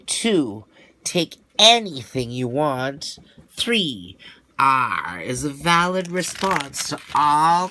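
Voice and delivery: a hint of a gruff pirate instructor reading rules; lightly voiced pirate rules. Pirate teacher reading the rules to students, lightly gruff.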